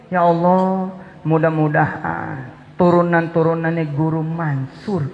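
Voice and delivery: doa yang ditiru pelan dan tenang; meniru doa ibu. Retold or imitated. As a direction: tirukan doa sang ibu dengan khusyuk. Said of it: "Dia selalu ngomong gini". (meniru doa ibu dengan tenang)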